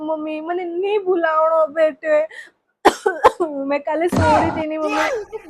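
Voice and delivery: tearful plea; crying. Acted. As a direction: weep through the words. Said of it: "तू रोनो बंद कर बेटा". (रोते हुए बोलना)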